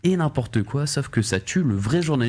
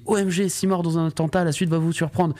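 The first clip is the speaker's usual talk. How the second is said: higher, hyped clickbait read; clickbait video narrator; 4 semitones higher than usual. Retold or imitated. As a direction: sell each headline like clickbait. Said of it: "ça sera écrit".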